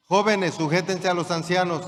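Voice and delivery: call for the congregation to repeat. Shown as a demonstration. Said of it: "Aquí respondieron mejor". (versículo proclamado más fuerte para que respondan)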